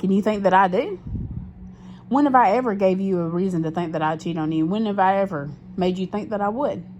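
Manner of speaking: loud, pressing questions; heated challenge. Retold or imitated. Retold to viewers, she challenges her boyfriend, loud. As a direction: hammer him with indignant questions.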